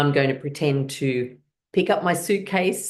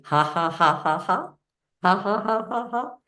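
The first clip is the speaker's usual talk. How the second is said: chest laugh; 6 semitones higher than usual. Shown as a demonstration. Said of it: "as you touch your chest".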